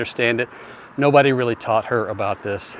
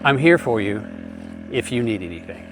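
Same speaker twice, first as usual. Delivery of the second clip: gentle inflection. Shown as a demonstration. Husband to wife, gently reassuring. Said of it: "the inflection there".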